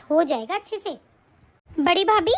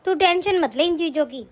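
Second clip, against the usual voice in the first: put-on lower, gentle old mother reassuring her daughter; an elderly mother soothing her child; 5 semitones lower than usual.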